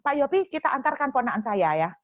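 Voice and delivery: mock blunt command to Pak Yopi; blunt order. Shown as a demonstration. Guest orders the host to drive the nephew, mock blunt command. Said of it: "nggak pakai ngomong gitu langsung".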